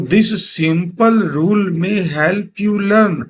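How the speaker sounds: very slow, each word drawn out; slow poem reading. Shown as a demonstration. Teacher reading a poem line to students, very slow. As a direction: read it word by word for the class. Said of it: "teacher reads poem line".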